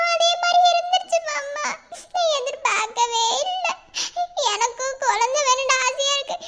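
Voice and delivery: confessing through sobs; tearful. Acted. Wife asks husband's forgiveness after pregnancy news, tearful. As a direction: apologise with crying breaths between phrases. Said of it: "நீ அழுதுக்கு இருக்கிறத பார்த்த".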